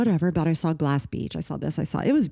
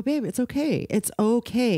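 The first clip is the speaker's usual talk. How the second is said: higher-pitched, soothing retold comfort; reassuring; 6 semitones higher, slower than usual. Mom comforting her quarantined daughter, reassuring. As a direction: gently reassure a crying child.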